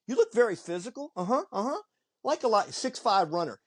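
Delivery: retelling the coach in a voice pitched well up; high coach voice. Retold or imitated. Coach eyeing a big recruit, voiced high. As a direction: play the coach up high, sizing the kid up. Retold college coach praising player.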